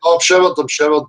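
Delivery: high indignant protest. Real, not acted. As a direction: protest you did shower.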